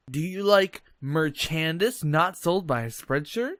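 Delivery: cheesy ad voice. Pretend. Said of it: "just beautiful ad".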